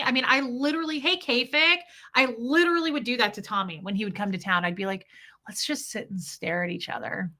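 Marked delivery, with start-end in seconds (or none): 5.5-7.3 soft breathy whisper. Retold or imitated. Wife whispering to Tommy to sit close, hushed. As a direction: whisper it like an intimate request.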